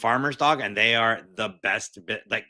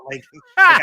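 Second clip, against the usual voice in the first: laughing; 13 dB louder than usual. Real, not acted. Guest laughing at own rant.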